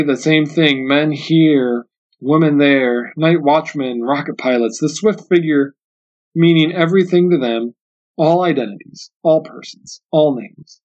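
even storytelling with pauses between items; measured literary reading. A narrator's reading. Lecturer quoting the novel to listeners, measured literary reading. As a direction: read the list in short, separate phrases. Reads a passage from the book.

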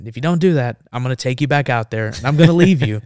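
posturing. Retold or imitated. Marine threatening to abandon the reporter, forceful posturing. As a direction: lay down an ultimatum, brooking no argument. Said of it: "I'm, like, posturing".

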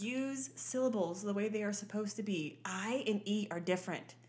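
carefully enunciated syllables; precise, instructional delivery; proper mother. Retold or imitated. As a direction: lightly imitate a mother teaching diction. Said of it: "You have to enunciate your words".

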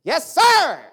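loud, high eager yes sir; enthusiastic. Retold or imitated. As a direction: snap it out like a keen recruit. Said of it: "Put some enthusiasm in it".

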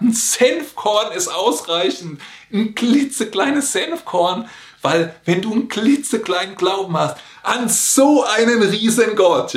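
high, small voice for a klitzekleines Senfkorn; tiny, high voice. Acted. Preacher to church, tiny mustard seed voice, high and small.

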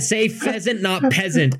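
high squeaky inner voice. Retold or imitated. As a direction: squeak it out as your own thoughts. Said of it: "my mind, I said".

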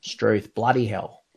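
ocker Aussie bloke drawl; broad Aussie bogan accent. Retold or imitated. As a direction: lay the Aussie accent on thick. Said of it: "that was really bogan".

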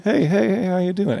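high bright greeting to everyone; a friendly Texan calling out hellos; cheery hello. Retold or imitated. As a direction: greet everybody you pass. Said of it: "I say hello to everybody".

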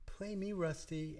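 high-pitched clarinet character; talking clarinet. Acted. Clarinet calling to a boy in his dream, high character voice. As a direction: play a clarinet come alive, pitched well up. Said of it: "maybe the clarinet comes to him and says".

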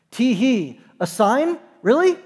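tee hee, then rising disbelief up to Bro; playful sarcastic chuckle at the Pharisees; mock incredulous. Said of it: "you are meant to chuckle".

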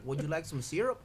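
put-on hospitable caricature in a Canadian accent; lightly faked Canadian accent; mock Canadian accent. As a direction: offer it like a cartoon Canadian. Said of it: "accurate we are on our Canadian accents".

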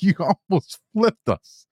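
high, drawn-out mock yell; imitated screaming. Commander to driver who hit the berm, mock screaming. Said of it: "just screaming".

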